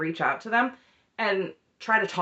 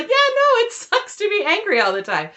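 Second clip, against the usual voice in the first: mocking agreement; 12 semitones higher, 5 dB louder than usual. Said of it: "or was just like".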